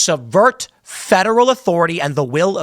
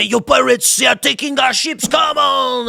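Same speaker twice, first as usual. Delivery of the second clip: hammed-up protest to the English crown; mock indignant Frenchman; 6 semitones higher than usual. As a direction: whine it up high like an outraged envoy. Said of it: "they'd say".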